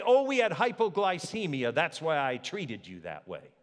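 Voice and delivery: hammed-up excuse-making; mocking a lame excuse. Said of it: "They didn't say".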